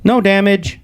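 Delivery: high-pitched mock answer; retold reply. Himself answering the news, high mock reply. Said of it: "And I was like".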